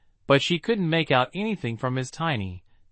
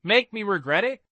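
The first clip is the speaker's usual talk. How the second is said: furious; 7 semitones higher than usual. Acted. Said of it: "Jamie Cena was furious".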